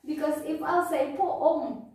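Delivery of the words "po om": "poom" pulled apart as PO-OM; two-syllable version. Shown as a demonstration. Teacher explaining the wrong count, poom split into two syllables. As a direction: say "poom" with the vowel broken into two beats. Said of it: "that is two syllables already".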